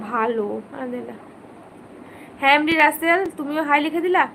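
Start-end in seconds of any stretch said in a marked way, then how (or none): 0.1-1.2 softer and lower, as promised; speaking softly. Real, not acted. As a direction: drop the voice right down for the viewers. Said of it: "তাহলে আস্তে আস্তে কথা বলছি".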